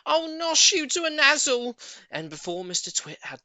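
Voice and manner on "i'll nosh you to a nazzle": furious shout. Acted. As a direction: spit each word in fury. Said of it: "she shouted".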